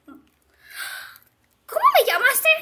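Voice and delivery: high, very slow drawn-out question; slow affronted challenge. Acted. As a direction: drag it out, daring her to repeat. Insultada, reta. (reto ofendido, muy lento y agudo)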